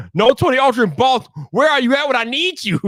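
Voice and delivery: playful exasperated summons; calling out for someone. Pretend. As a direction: call out as if to a missing friend. Calling out to absent friend.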